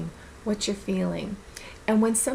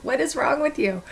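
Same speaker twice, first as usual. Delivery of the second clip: 1 exasperated self-scolding; 4 semitones higher, 3 dB louder than usual. Retold or imitated. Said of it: "I'm like".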